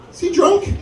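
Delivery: high, suspicious mom voice; a mock mom squeaking her doubt; mom's suspicion. Mom wonders if her son is drunk, in a high mock voice.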